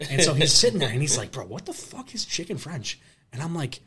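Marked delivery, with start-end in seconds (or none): 1.3-3.0 drawn-out mock incredulity, softer; baffled disbelief. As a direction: imitate a stunned buddy, slow and higher. Repeats the buddy's baffled question.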